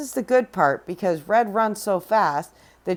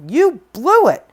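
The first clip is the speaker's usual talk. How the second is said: loud, higher taunt; wolf taunting; 7 semitones higher, 7 dB louder than usual. Acted. Wolf mocking Jack, loud taunt. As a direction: rub it in loudly. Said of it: "says the wolf".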